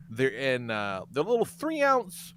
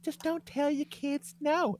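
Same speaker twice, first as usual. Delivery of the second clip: mock prissy woman; 12 semitones higher, 4 dB quieter, slower than usual. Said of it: "this broad to be like".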